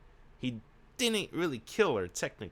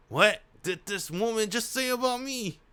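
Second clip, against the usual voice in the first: high, louder disbelief; incredulous outcry; 12 semitones higher, 5 dB louder than usual. Real, not acted. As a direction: ask it high and loud, stunned. Streamer reacting in mock affront.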